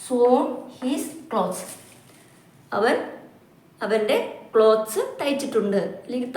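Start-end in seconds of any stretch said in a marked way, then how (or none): 0.1-1.6 slow example reading. Shown as a demonstration. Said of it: "ഈ മൂന്നാമത്തെ ഫോമാണ്".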